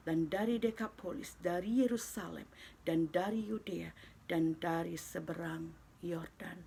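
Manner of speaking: measured, solemn Bible reading with pauses between phrases; formal read-aloud of holy scripture. Acted. Reads Bible passage aloud to congregation.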